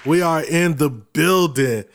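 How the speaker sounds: podcast intro. Acted. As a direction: announce the show like a host.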